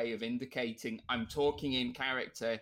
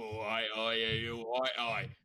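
thuggish Cockney accent; Cockney thug; 2 semitones lower than usual. Shown as a demonstration. Showing the Cockney used for thuggish characters, Cockney accent. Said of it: "fun to do a Cockney accent".

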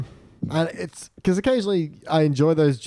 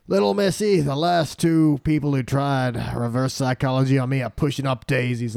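Buck McCoy voice. Retold or imitated. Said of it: "doing this voice enough".

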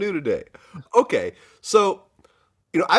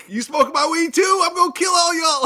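angry impression; 13 semitones higher than usual. Co-host imitating a rapper tripping over weed, angry yell. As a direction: rant it in a raised, exaggerated shout. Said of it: "your impressions are on point".

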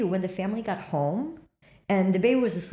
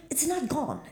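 high, quieter worried line; uneasy high-pitched realization; dismayed realization; 8 semitones higher, 3 dB quieter than usual. Retold or imitated. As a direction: realize with dread it's still there. Realizing ghost remains.

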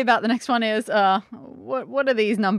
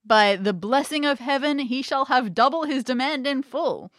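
theatrical storybook reading with voiced dialogue; story narration; 3 semitones higher than usual. A narrator's reading. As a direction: act out the old tale's dialogue lightly.

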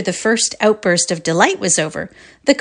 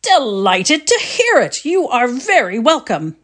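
cordial; 4 semitones higher than usual. Acted. Father welcoming his son's friend, cordial. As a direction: make the guest feel at home. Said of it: "the father said cordially".

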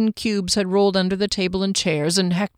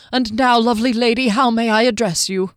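lightly raised courtly charm; gallant halfling; 3 semitones higher, 4 dB louder than usual. Acted. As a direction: flatter the lady politely. Hector bowing to Misty.

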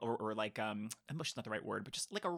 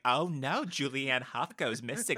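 louder, drawn-out mock dismay; exaggerated mom impression; 6 dB louder, slower than usual. Imitating mom hearing the movie twist, exaggerated dismay. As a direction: do your mom aghast at celebrity gossip. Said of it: "I don't know why I'm making my mom sound like".

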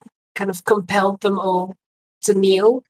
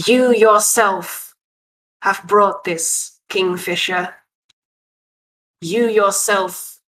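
hissing voice. Acted. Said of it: "she speaks in a hissing voice".

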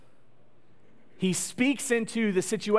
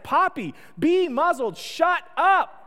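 higher, louder mock yell at the dog; mock exasperated yell; 9 semitones higher, 5 dB louder, slower than usual. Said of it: "and I'm just like".

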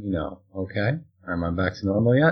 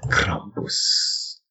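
Krampus whispered with a rising trailer tone; 3 dB quieter than usual. Retold or imitated. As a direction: breathe Krampus like an ad voiceover. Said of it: "can't stop myself from saying Krampus".

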